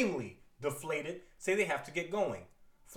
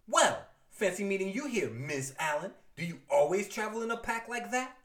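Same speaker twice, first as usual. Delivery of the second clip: icy catty; 3 semitones higher than usual. Acted. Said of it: "their word balloons dripping icicles".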